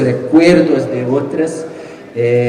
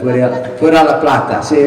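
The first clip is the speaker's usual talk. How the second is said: words through laughter; laughing; 2 semitones higher, 4 dB louder than usual. Real, not acted. Author jokes to the audience, laughing. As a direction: chuckle while talking. Joking about waiting for money.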